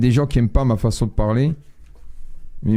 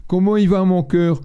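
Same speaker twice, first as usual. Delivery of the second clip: higher, sing-song mock baby talk to a dog; light mimic of a doting owner; pet-talk imitation; 6 semitones higher than usual. Man retells girlfriend asking the dog how it is, higher mock coo. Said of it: "j'entendais ça".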